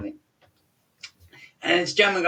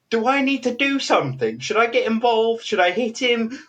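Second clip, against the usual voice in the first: higher-pitched urgent questions; imitating concerned friend; 6 semitones higher than usual. Groom's best friend in his ear, imitated urgent concern. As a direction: act the friend anxiously offering to step in.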